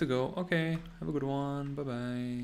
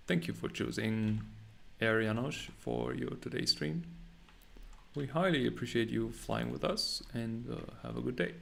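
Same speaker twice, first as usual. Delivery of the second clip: flight attendant. Pretend. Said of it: "You sound like a flight attendant".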